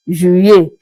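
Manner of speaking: Juillet said zhoo-yay; French pronunciation. Shown as a demonstration. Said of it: "your sound of Juillet".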